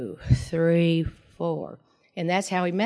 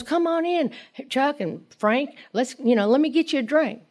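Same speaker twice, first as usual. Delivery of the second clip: lightly voiced tipsy woman inviting them in for a drink; tipsy hostess; 6 semitones higher than usual. Drunk Mildred welcoming the men.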